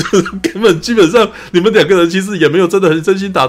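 can't stop laughing while explaining; amused, laughing as the words come out. Real, not acted. Laughing at the silly fight scene.

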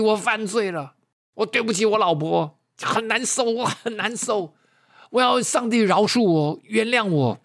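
high-pitched mock wail of remorse; imitated tearful confession. Piano teacher confesses his affair to the preacher, high imitated wailing. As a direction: act out a weeping man's confession, high throughout. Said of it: "他哭着冲下来，哭得非常大声".

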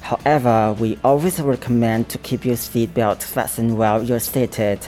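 smooth in-flight PA read; flight attendant announcement. Shown as a demonstration. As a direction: read it like cabin crew on the intercom. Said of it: "来一段".

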